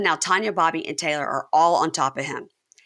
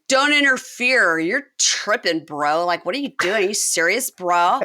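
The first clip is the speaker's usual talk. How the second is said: mock indignant; 2 semitones higher, 3 dB louder than usual. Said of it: "And Chance is like".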